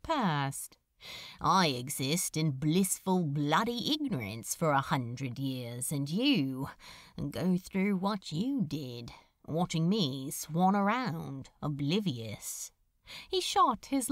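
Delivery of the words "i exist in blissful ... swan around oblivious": a lightly voiced sardonic demon; wry demon. Demon musing to the angel about Hell, lightly voiced sardonic. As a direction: toss it off, dry and lightly lowered.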